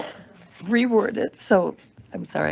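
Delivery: losing her voice, hoarse and strained. Real, not acted. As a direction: talk through a worn-out, hoarse throat. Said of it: "I'm losing my voice for sure".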